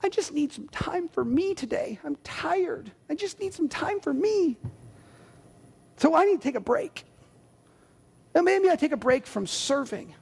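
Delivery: a hint of a whiny, tired churchgoer; self-pitying sigh of someone wanting a break; mock tired whine. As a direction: lightly play the worn-out member begging off. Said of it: "We say".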